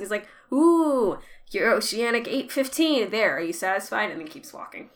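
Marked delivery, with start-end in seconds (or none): 0.5-4.1 sarcastic. Retold or imitated. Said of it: "Miles is incredibly awesomely sarcastic".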